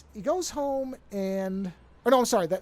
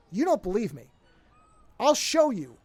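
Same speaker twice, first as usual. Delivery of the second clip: louder, rising into anger; upset; 2 semitones higher, 6 dB louder than usual. Retold or imitated. Upset student confronting his teacher, louder and angrier. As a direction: snap back, a little hurt. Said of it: "the kid then gets very upset".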